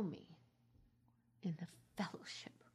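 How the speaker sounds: soft, fading words of scripture; hushed, reverent quote. Real, not acted. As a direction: let it sink to almost nothing. Quoting Jesus softly, reverent.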